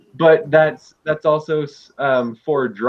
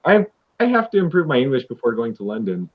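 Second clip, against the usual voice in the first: "I, I have to" rushed out quickly, stumbling into it; hurried version; faster than usual. Shown as a demonstration. Tutor contrasting a quick reading of "have to" for a student. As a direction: rattle the sentence off fast. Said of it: "depends on the inflection in your voice".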